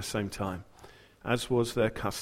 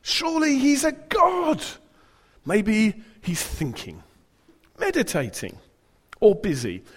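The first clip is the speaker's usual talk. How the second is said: high, slow mocking shout; taunting; 9 semitones higher, 6 dB louder, slower than usual. Elijah mocking Baal's prophets, slow jeering shout. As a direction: drag out the jeer at the prophets. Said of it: "Elijah began to taunt them".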